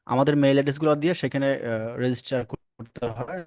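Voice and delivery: broken-up call audio; choppy connection. Real, not acted. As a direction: voice cutting in and out over a bad line. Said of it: "কথা একটু কেটে কেটে আসছে একটু".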